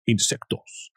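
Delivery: susurro áspero de bicho; susurro de insecto. Pretend. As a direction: sisea la palabra como un insecto. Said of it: "Sounds like a call". (susurro de bicho)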